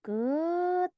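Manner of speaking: "ket" drawn out high, stopped on T; pure final T. Shown as a demonstration. Teacher stressing the ending, long high "ket" with unreleased T. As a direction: stretch the vowel of "ket", then close without any H. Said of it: "bener-bener huruf T".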